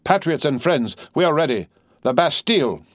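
high, ringing rallying cry; resounding voice. A narrator's reading. Defarge rallying patriots to storm the Bastille, resounding cry. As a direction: proclaim it to rouse a crowd. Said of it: "in a resounding voice".

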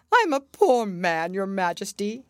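begging on one knee; Hatter pleading. A narrator's reading. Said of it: "he began".

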